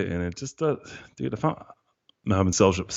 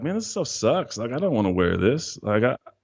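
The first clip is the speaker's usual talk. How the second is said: disgusted complaint; 4 semitones higher than usual. Retold or imitated. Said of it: "and I was like".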